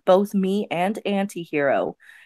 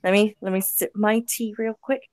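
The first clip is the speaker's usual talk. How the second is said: clipped wartime posh; 7 dB quieter than usual. Pretend. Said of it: "I am Anton".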